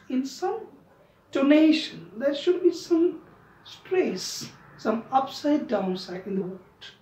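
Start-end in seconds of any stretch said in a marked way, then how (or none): 4.8-6.9 very slow. Shown as a demonstration. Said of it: "teacher speaking English".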